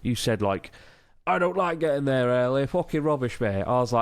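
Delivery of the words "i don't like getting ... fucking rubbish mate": lightly put-on Geordie accent; mock Newcastle lad voice; Northern English accent. To his co-host, a mock Northern English accent. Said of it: "What is that accent?".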